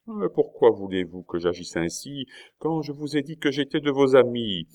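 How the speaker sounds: high, insistent remonstrance; impatient protest. A narrator's reading. Duke protests his friendship, impatient.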